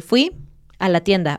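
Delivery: "Fui", pause, "a la tienda"; unnatural pause. Shown as a demonstration. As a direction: break after "Fui". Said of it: "No tendría sentido decir".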